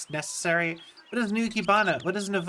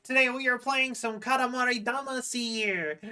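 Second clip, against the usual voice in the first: higher, bright streamer greeting; cute anime streamer; 5 semitones higher than usual. Acted. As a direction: welcome the raiders like an idol. Greeting raiders as VTuber.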